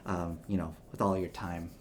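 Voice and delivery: a proud patriarch addressing his son; stately older gentleman. Acted. Old man replies to son.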